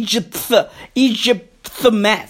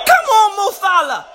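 pleading shout; 3 semitones higher than usual. Real, not acted. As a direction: implore your favourite player. Urging star player during match.

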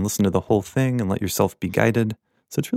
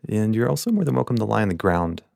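guided meditation. Acted. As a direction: gently guide listeners into their posture, leaving space between phrases. Leads the meditation.

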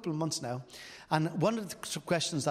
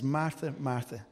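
loving tone; 3 semitones lower than usual. Retold or imitated. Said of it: "responds in a loving way".

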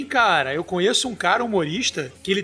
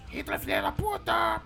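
parrot voice; 9 semitones higher, 8 dB quieter than usual. Retold or imitated. Parrot cursing Hitler.

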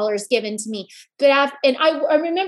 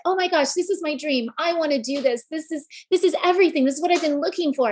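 retold excitement; 5 semitones higher, faster than usual. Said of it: "I was so excited".

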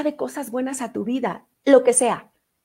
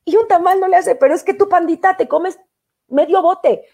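loud, high mock scolding; playful teasing; 6 semitones higher, 6 dB louder than usual. Real, not acted. Host teases listener about eating half the pot, playful and loud. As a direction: tease him like a fond scold.

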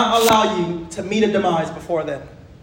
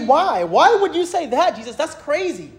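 higher-pitched mild mock disbelief; imagined objector; 4 semitones higher than usual. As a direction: lightly act a puzzled listener questioning Jesus. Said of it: "And you might say".

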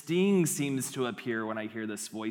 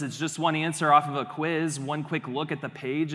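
rationalizing inner voice; 4 dB louder than usual. Acted. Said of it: "the voice sounds like this".

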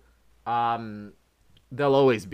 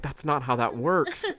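slow exasperated correction; 3 semitones higher, slower than usual. Retold or imitated. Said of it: "Broadway League is like".

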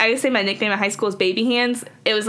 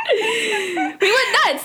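helium voice; 11 semitones higher, much slower than usual. Real, not acted. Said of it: "I have just a lot of helium".

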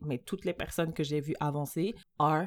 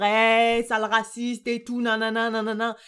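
mock insult; 3 semitones higher, 4 dB louder than usual. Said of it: "Je vais dire".

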